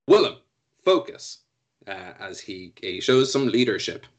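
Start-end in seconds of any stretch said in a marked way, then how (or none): 0.1-1.4 calling out loud; shout. Acted. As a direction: shout it across the field. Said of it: "he shouts over to Willem".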